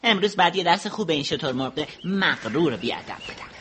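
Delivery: lightly voiced little hedgehog, determined; a hint of a small clever hedgehog; soft-spoken plotting hedgehog; hedgehog character.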